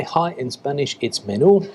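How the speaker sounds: menú with the stress on the last syllable, nu; stress on final U. Shown as a demonstration. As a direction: lean on the end of menú. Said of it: "so you stress that letter".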